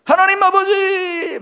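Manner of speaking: long, high, loud mock wail; hammed-up prayer bursting with resentment; resentful cry to God. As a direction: cry out drawn-out in acted grievance. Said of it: "분노가 치밀고 원망이 치밀어가지고".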